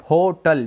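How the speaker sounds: "होटल" starting with an audible H; H sounded. Shown as a demonstration. Teacher shows students the first sound, "होटल" with H pronounced. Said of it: "पहला शब्द क्या आता है".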